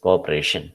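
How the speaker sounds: "Cooperation" stressed on RA; coope-RA-tion, weight before the ending. Shown as a demonstration. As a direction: lean on RA in "Cooperation". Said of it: "Third syllable is stressed".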